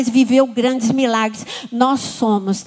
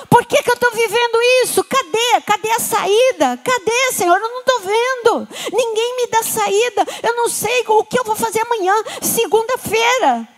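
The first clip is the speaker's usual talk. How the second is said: higher, pleading questions; anxious believer; 7 semitones higher than usual. Acted. Believer asking God where the exit is, pleading. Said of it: "você pode perguntar".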